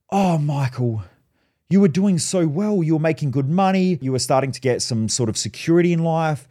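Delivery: lightly acted parental disappointment; disappointed mum. Mum hears her son has quit again, imitated dismay. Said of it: "world's biggest disappointment to my mum".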